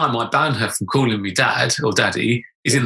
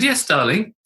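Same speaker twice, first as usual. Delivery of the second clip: high falsetto; 5 semitones higher, slower than usual. Retold or imitated. Answering daughter in high voice.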